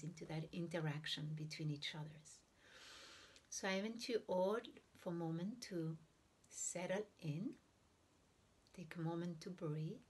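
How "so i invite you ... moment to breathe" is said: unhurried meditation guidance with long silent pauses; guided meditation. Real, not acted. Teacher guiding listeners to breathe and observe the heart, guided meditation. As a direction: ease listeners into breathing, leaving room between phrases.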